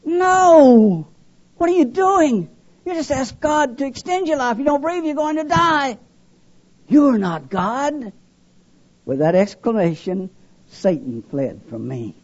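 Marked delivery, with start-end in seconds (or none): 0.1-8.1 much higher, louder desperate cry of alarm; a panicked shout tapering off on the last line; inner scream. Retold or imitated. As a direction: scream it as the realization hits. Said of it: "as though I screamed as loud as I could in my spirit".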